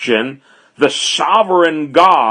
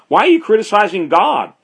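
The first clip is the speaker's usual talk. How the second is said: quick, higher-pitched rebuking question; Paul challenging critics; 6 semitones higher, faster than usual. Acted. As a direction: fire it back at the critics. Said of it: "Paul says".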